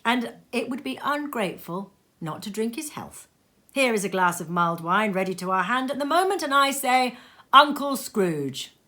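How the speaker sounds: toast the absent uncle; Fred proposing a toast to his uncle. Acted. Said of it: "said Fred".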